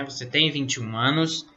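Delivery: "Você tem vinte e um anos?" with a rising questioning end; teacher's model question tune on "Você tem vinte e um anos?"; question intonation. Shown as a demonstration. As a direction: ask "Você tem vinte e um anos?", lifting the last word. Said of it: "aquela entonação na voz".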